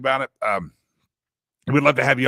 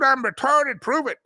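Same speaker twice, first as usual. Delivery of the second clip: squeaky mock voice; 10 semitones higher, 3 dB louder than usual. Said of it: "reading meme voice".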